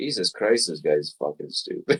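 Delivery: muttered under breath. Playing a character who insults someone, muttered under the breath. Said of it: "I say that under my breath".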